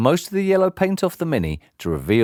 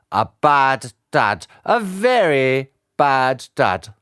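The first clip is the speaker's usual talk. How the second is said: put-on stern old judge; 7 semitones higher than usual. Judge condemning the father before the court, scornful. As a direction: drag out a bad dad in contempt.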